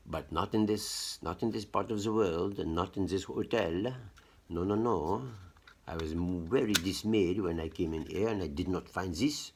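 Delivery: put-on French accent. Telling viewers about the hotel outlets, in a mock French accent. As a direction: speak English as a Parisian would. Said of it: "You hear, like, my French accent".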